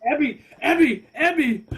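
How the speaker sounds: loud drawled "Abby" for ebi; Southern "Abby". Shown as a demonstration. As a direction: say "Abby" like an American would. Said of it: "I would probably say that too".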